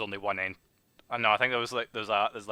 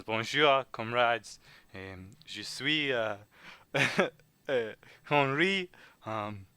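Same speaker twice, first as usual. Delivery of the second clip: hammed-up French accent; slower than usual. Game master as Henri introducing himself to comrades, French accent. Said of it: "your French accent".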